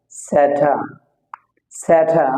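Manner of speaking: স্যাটা as "sa-tha", r left silent; aspirated T. Shown as a demonstration. Teacher showing how T is sounded, aspirated T. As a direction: puff the t in স্যাটা. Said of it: "টি উচ্চারণ হবে".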